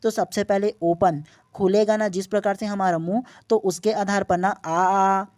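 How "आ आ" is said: long, held आ with mouth wide open; open-mouth vowel. Shown as a demonstration. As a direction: draw out आ, fully open. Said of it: "पूरी तरह से आपका मुंह open". (पूरा मुंह खोलकर लंबा आ)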